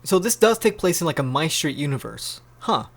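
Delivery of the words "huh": plain reading voice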